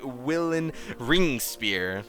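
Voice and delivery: slow, drawn-out name; grand naming. Acted. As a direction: announce the name slowly and grandly. Pompous character names his playwright.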